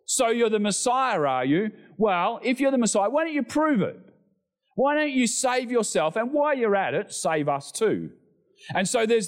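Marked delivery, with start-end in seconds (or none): 0.1-1.2 mock the title with scorn; sarcastic. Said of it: "That sarcastic tone in his voice". 1.2-8.1 much higher, mocking taunt; sarcastic jeer. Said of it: "That sarcastic tone in his voice".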